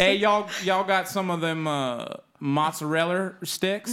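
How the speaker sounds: folksy American y'all accent, hammed up; exaggerated American Rs, drawn out; mock American accent. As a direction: imitate a bad American accent, stretching the last words. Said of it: "trying to do an American accent".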